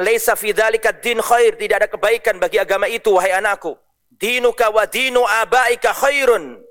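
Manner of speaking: a father scolding his son, building to a shout; stern father. Acted. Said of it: "Kemudian ayahnya mengatakan". (ayah menegur anaknya dengan keras)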